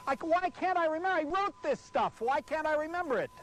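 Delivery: high exasperated outburst; furious at his own memory; frustrated yelling at himself. Real, not acted. Can't remember his own copy.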